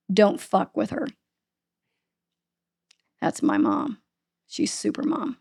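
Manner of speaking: each phrase costs a breath, like a very sick son; a light imitation of gasping between words; breathless, halting. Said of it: "it took multiple breaths to get all of that out".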